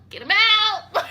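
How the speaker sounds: high loud demand with falling end; mock yell again, firmer.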